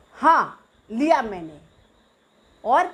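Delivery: loud mock boast; teasing brag. Naughty brother to little sister, loud teasing boast. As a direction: taunt her, proud of the mischief. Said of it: "ऐसे, ऐसे करके बोला".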